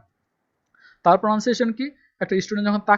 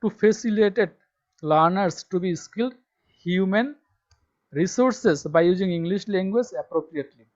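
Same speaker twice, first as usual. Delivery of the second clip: slow dictation reading; much slower than usual. Shown as a demonstration. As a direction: spell it out slowly for students to copy. Reading syllabus text aloud. (ধীরে ধীরে জোরে পড়ে শোনানো)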